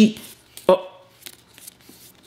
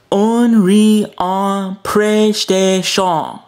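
ad announcer; slower than usual. Acted. Mock ad tagline.

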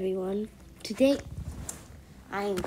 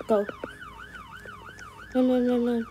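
panicked urgent. Pretend. Hears cops, fleeing.

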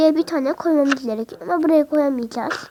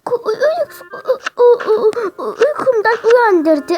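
put-on whiny sleepy kid; 7 semitones higher than usual. Fake whiny just-woken complaint.

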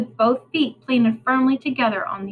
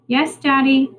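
calling back; 4 semitones higher, 4 dB louder than usual. Acted.

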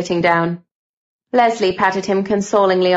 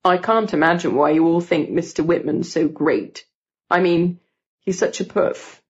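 put-on lightly lowered scornful boy voice; needling schoolboy; 3 semitones lower than usual. Gordon belittles the admired teacher, mildly scornful boy. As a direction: needle them in a slightly deepened boy's voice.

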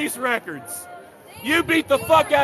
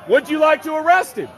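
insistent shout. Real, not acted. Repeating the question to the officer, shouted.

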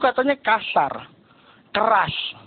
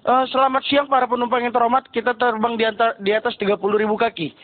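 pilot announcement; 2 semitones lower than usual. Retold or imitated. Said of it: "Waktu pas bahasa Indonesia, dia jelas".

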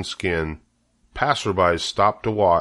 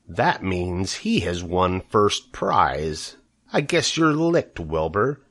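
lightly voiced sneering rat, unhurried; taunting rat. Rat taunting Wilbur about the blue tag, mildly sneering. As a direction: needle the pig with mock pity.

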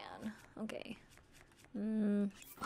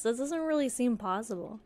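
usual speaking voice

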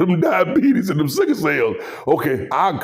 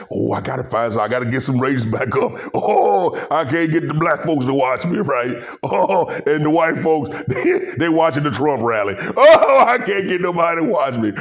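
whiny mock Skip; 2 semitones lower than usual. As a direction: moan it like a sulking host. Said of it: "He said".

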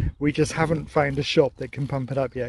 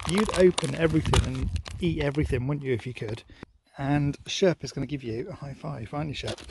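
hushed, fond murmur to the dog; soft pet talk to the dog; soft cooing to dog; 2 semitones lower, 5 dB quieter than usual. Real, not acted. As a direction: coo it quietly to your pet.

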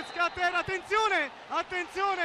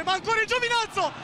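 excited shout; 5 semitones higher, faster than usual. Real, not acted. Attack by home team.

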